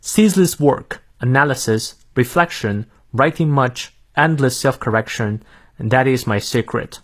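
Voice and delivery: American English model reading; careful American accent, phrase by phrase. Shown as a demonstration. Teacher reads the quote for learners to follow, American accent. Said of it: "美式发音来念两遍".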